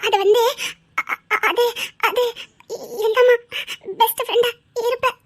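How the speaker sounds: stammering through a nervous giggle; giggly, halting reply; nervous giggling. Acted. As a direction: laugh awkwardly while fumbling for words.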